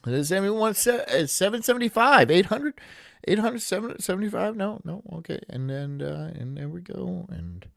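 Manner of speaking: quiet, sluggish auctioneer; bored auctioneer impression. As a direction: drone through the bids half-asleep. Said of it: "That was my impression".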